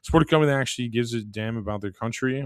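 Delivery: sponsor read in an even pitch. Acted. Host pitches coffee to listeners, scripted ad read. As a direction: read the sponsor copy straight through.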